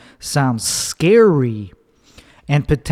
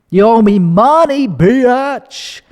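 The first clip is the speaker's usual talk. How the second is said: higher, louder mock demand; 7 semitones higher, 3 dB louder, slower than usual. Comedian demands payment from a friend who vented, in a loud mock demand. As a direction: bark it out as a joke shakedown. Comic demand after venting.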